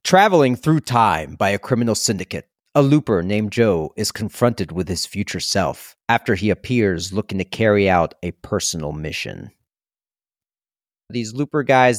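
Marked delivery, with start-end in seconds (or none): 0.0-9.5 movie trailer voice. Shown as a demonstration. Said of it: "my best movie voice".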